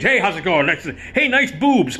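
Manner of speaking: leering Mickey Rooney. Retold or imitated. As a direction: greet the crowd like a sleazy old star.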